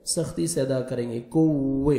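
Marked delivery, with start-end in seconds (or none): 1.2-2.0 کوے said as a plain kuwe, not merged; deliberately wrong کوے, no doubling; کوے without the shadda, as students misread it. Shown as a demonstration. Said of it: "کوے نہیں پڑھیں گے".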